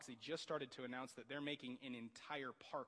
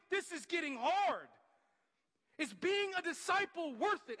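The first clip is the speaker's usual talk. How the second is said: much higher and louder, straining; anguished plea; 7 semitones higher, 7 dB louder than usual. Retold or imitated. Struggling believer voicing despair to God, anguished. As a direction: cry out the doubt. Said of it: "you feel like".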